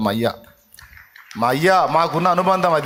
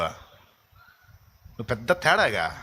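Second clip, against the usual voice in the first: slow mocking sneer; 3 semitones lower, much slower than usual. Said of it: "నీకెవడు చెప్పాడు రా లూసి".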